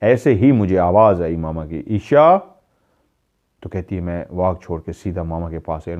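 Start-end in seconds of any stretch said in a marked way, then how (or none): 1.9-2.4 raised calling voice, drawn out; calling out a name. Retold or imitated. Mother calling daughter from another room, a raised call. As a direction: call her name across the house like a mother.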